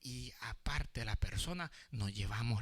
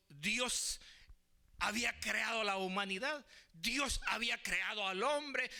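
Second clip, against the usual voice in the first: fervent preaching; 11 semitones higher, 5 dB louder than usual. Real, not acted. Preaches with force.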